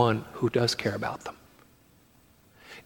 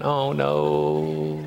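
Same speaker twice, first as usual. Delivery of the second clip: low, drawn-out mock groan of a bored listener; 9 semitones lower than usual. Preacher mimics a listener dreading a long sermon, mock groan.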